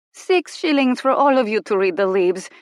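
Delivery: kind but not haggling, mildly voiced; gently but firmly. A narrator's reading. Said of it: "said gently but firmly".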